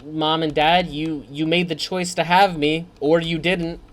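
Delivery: sarcastic thanks. Retold or imitated. Gamer mocking thanks to Mom and Dad, sarcastic. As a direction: sneer out a fake congratulations.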